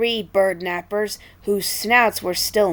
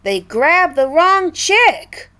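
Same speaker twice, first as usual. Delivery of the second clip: slow dawning realization; 9 semitones higher, 5 dB louder, slower than usual. Acted. Bird realizes the mistake.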